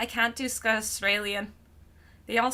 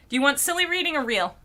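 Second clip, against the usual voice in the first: ordinary delivery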